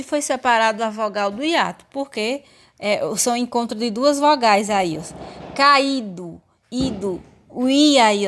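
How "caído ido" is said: "Caído" with a strong, separate I; stressed I. Shown as a demonstration. Teacher showing the hiatus to students, stressed I in "Caído". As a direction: lean on the í in "Caído, ido". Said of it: "tá com som forte".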